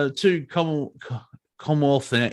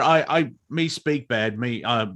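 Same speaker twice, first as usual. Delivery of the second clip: caveman talk; 2 semitones lower than usual. Pretend. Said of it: "to be fair".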